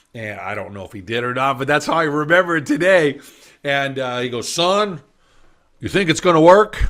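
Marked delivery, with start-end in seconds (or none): 4.5-6.9 slight put-on Texas drawl, raised, pitched up. The speaker retells a man from texas questioning him, in a texas drawl. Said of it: "he had a bit of a Texas drawl".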